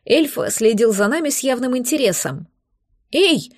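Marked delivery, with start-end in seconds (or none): 3.1-3.5 sudden high squeak of fright; frightened squeak. A narrator's reading. Little dragon startled by the threat, squeaking high. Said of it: "испуганно пискнул липучка".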